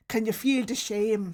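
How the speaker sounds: shaming mock Irish accent; Irish great-grandparent. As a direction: scold in a bad Irish accent. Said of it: "Irish is my great grandparents".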